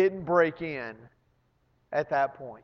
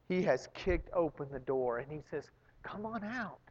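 tender hush; 3 semitones lower, 9 dB quieter than usual. Acted. Preacher tells listeners Jesus freed them, tender and hushed. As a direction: lower your voice and speak right to one heart.

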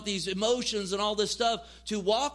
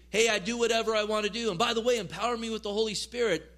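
mock careless; faster than usual. Mocking careless believer.

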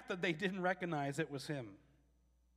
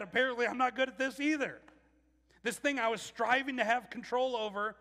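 discouraged; 5 semitones higher, 3 dB louder than usual. Acted. Disciples' despair voiced.

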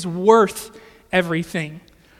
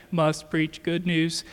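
lightly voiced robot, slow and lower; a hint of a mechanical gospel robot, slowed down; 3 semitones lower, 4 dB quieter, slower than usual. Preacher imagining Paul as a robot, mock robotic monotone. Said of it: "like, gospel robot".

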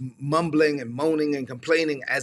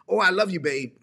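snide comment; 3 semitones higher than usual. Retold or imitated. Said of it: "snide comments".

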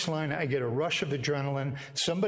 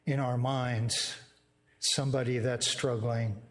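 closing prayer; 2 semitones lower than usual. Acted. Pastor praying over his church at the close, hushed and earnest.

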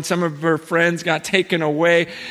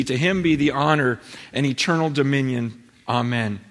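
lower, measured reading voice; scripture reading; 3 semitones lower than usual. Real, not acted. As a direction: read it like a solemn verse. Reads scripture aloud.

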